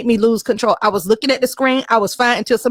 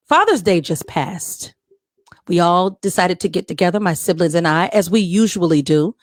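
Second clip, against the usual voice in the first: fireside storytelling. Acted. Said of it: "in the female Morgan Freeman voice".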